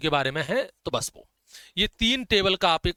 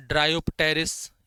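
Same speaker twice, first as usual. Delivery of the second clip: savoured name; much slower than usual. Shown as a demonstration. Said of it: "कितना अच्छा लगता है ये नाम बोलने में".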